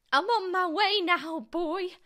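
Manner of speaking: put-on high, loud, screechy old woman; triumphant calling out. A narrator's reading. Grandma calls down to George, screechy triumphant call. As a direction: holler it down from above. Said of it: "she called down to George".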